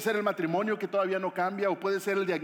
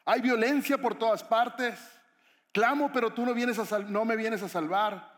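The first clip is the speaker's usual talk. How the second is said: shouting in capitals; 4 semitones higher, 4 dB louder than usual. Acted. Habacuc pleading with God amid violence, loud protest. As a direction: call it out in protest, stretching the words. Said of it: "lo escribió ahí con mayúsculas".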